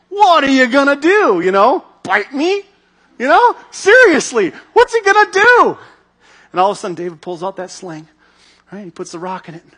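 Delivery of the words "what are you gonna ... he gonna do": loud, much higher, jeering disbelief; mocking giant. Goliath mocking David's sling, loud high jeering. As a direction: ridicule him as a harmless boy. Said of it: "Goliath is just laughing".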